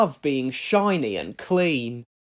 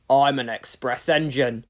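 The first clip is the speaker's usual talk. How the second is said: sniffy; 3 semitones lower, 4 dB louder than usual. Acted. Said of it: "sniffed Gordon".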